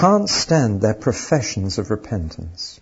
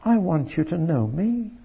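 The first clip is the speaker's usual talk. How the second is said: anguished plea; 5 semitones higher, 4 dB louder than usual. Acted. God's anguished plea read aloud.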